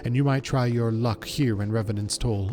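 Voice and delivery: formal, measured official's delivery; a hint of stately fantasy officialdom; lightly voiced guild official. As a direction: read it like a courteous guild spokesperson. Reads a guild character's dialogue.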